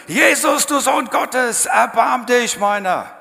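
full-voiced, high desperate cry for mercy; desperate shout. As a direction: bellow it out like a blind beggar by the road. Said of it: "fängt er an zu brüllen". (verzweifelter lauter Schrei)

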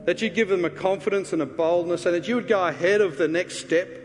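earnest, measured prayer over the congregation; pastor's closing prayer. Acted.

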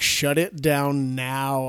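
slow, deliberate order; the boss ordering the broadcast shut down, slowly; stern station manager. Retold or imitated. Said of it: "He's like".

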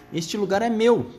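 high, sharp rat squeak; twitchy squeaking rat voice. Acted. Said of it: "guinchou o rato".

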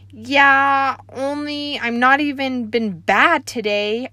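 loud, high nervous blurt; nervous kid. Acted. Junie B. to the grouchy typing lady, loud nervous blurt. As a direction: blurt it out fast to the scary lady. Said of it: "very nervous".

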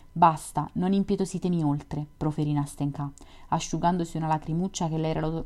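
steady literary read-aloud voice; story narration. A narrator's reading. Podcaster reading White Nights to listeners, story narration. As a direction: narrate the novel evenly, voicing the lovers lightly.

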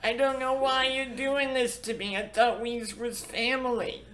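high, hammy Italian American mob voice; a wounded Italian American gangster pleading; Italian American accent. Pretend. Answering mobster bit in kind.

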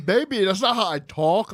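lightly voiced girlfriend; mock girlfriend. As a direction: echo her line lightly. Mimicking girlfriend line.

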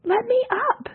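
high furious shout. A narrator's reading. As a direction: yell to be let up. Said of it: "Ekarit shouted".

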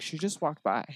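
imitating an offhand hostess; very casual. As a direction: mention it as if it's nothing. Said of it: "Like, very casually".

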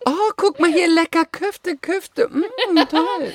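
hoch und süßlich nachgeäfft; spöttische Parodie. Pretend. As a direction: die Kollegin beim Wörterdroppen verspotten. Parodiert die Kollegin im Laden. (spöttisch nachgeäffte süßliche Ladenstimme)

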